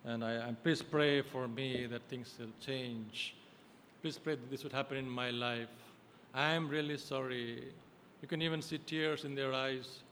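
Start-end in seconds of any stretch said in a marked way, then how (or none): 0.0-7.7 softer, pleading penitent; mock penitent plea. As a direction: imitate a churchgoer apologizing to pastor. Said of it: "They come and say".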